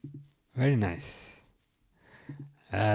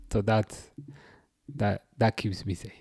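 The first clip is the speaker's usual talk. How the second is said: unvoiced whispered aside; 4 semitones lower, 8 dB quieter than usual. Real, not acted. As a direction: whisper it like a secret. Quiet aside after joke.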